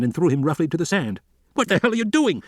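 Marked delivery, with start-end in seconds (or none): 1.5-2.4 high, outraged yell. A narrator's reading. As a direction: roar it up from the sand. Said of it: "Levine yelled".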